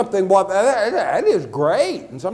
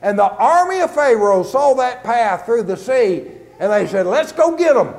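raised, driving sermon storytelling; animated preaching; 4 semitones higher than usual. Real, not acted. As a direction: preach the story with rising energy. Preacher retells the Red Sea crossing.

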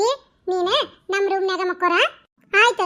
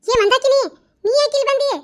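sharp scolding; 3 semitones higher than usual. Acted. Mother scolds daughter sharply.

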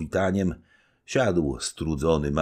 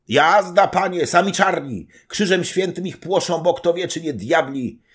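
higher, louder breathless report; urgent servant report; 7 dB louder than usual. Acted. Servant reporting the raid to the knight, loud. Piętka voiced by reader.

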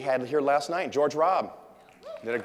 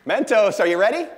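even louder, higher showman call; louder hype call; 10 semitones higher, 12 dB louder than usual. Real, not acted. Speaker revving up the audience for the Mentos stunt, bigger hype shout. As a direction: push the crowd harder on the repeat.

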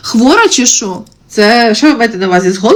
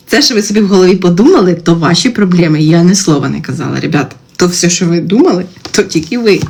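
lower, odd mock-possessed voice; changed voice; 3 semitones lower than usual. Streamer pretending her voice changes, lower and odd. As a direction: let the voice sink strange and low. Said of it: "у мене голос міняється".

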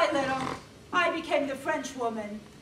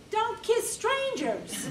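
laughing lesson; 9 semitones higher, slower than usual. Acted. Mock lesson rule.

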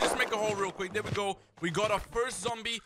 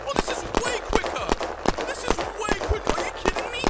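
high, loud, excited yelps of disbelief; can't believe how fast it digs; thrilled disbelief; 12 semitones higher, 5 dB louder than usual. Real, not acted. Gamer to viewers, amazed pistol digs faster, excited high shout.

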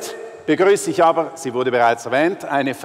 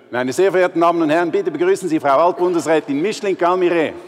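fast, raised host announcement; grand entrance announcement; 4 semitones higher, faster than usual. Acted. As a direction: build up the entrance. Introducing the guest speaker.

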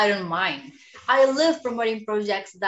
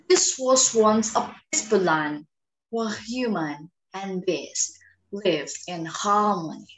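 put-on a German accent on the narration; 2 semitones lower than usual. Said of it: "Let me try it in German accent".

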